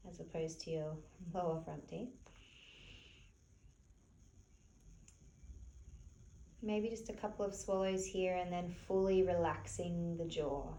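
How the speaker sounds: soft, unhurried meditation-teacher voice; softly spoken, spacious relaxation cues; guided relaxation. Real, not acted. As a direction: gently guide them to relax, leaving long pauses. Leads a gentle relaxation.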